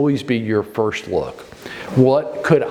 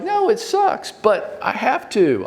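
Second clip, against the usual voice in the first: mock groan; 10 semitones higher, slower than usual. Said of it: "the rest of us are like".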